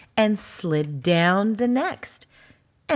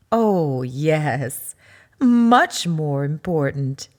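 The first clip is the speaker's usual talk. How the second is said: smiling; 5 semitones lower, 4 dB louder, much slower than usual. Acted. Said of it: "Mama said with a smile".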